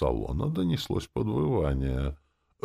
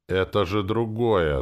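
slow, hesitant claim; wavering, unconvinced protest; unsure; 5 semitones higher, 5 dB louder, slower than usual. Acted. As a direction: say it without believing it. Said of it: "сказал я без уверенности".

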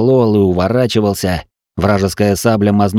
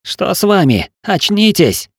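higher-pitched, urgent call to a dazed man; alarmed urging; 10 semitones higher than usual. A narrator's reading. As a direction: shake them awake with your voice. Shaking narrator back to senses.

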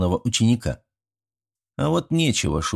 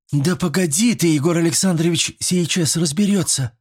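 put-on high insistent girl; 9 semitones higher than usual. A narrator's reading. Girl hushes the others, high and firm. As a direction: insist firmly, girlish and high.

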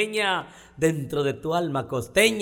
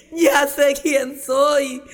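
mock wail; 8 semitones higher, 5 dB louder, much slower than usual. Skunk realizing, crying.

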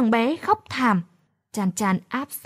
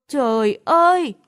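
an exasperated, lightly voiced oh my god; a hint of a frazzled teen at wits' end; exasperated cry. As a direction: throw up your hands with a sigh of despair. Exasperated cry at crying baby.

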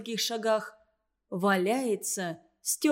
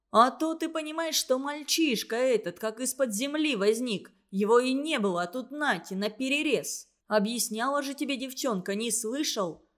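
roaring. Acted. Truck driver roaring back at the counselor, indignant bellow. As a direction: roar back in outrage. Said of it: "потом взревел".

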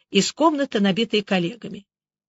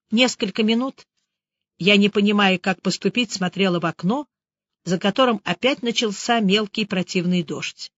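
plain reading voice

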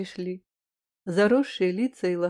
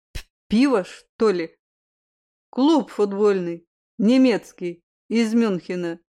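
stammering; 4 dB louder than usual. Acted. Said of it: "Чуть заикаясь".

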